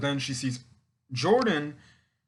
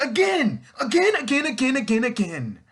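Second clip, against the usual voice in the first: much higher, louder, then fading back down; exasperated repeating; 12 semitones higher, 6 dB louder than usual. Retold or imitated. Fan scolding Courtney for repeating her mistake, high exasperated chant fading out. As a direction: hammer the word again, then let it die off.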